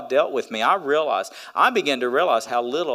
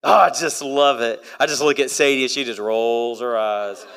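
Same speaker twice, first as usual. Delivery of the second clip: usual speaking voice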